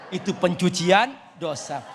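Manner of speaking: a laughing shout on the punchline. Real, not acted. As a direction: laugh it out to the crowd. (tertawa sambil berseru)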